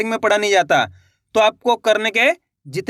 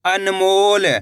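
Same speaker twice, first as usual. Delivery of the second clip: अनमोल drawn out, long ओ in मोल; joined-up demonstration; much slower than usual. Shown as a demonstration. Teacher blending the letters for learners, अनमोल drawn out. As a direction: stretch the second half of अनमोल. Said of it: "मेरे साथ साथ इनको repeat करना है".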